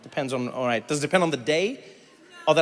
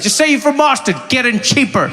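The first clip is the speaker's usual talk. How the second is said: sly advice; 6 semitones higher, 5 dB louder than usual. Retold or imitated. Quoting her sly advice.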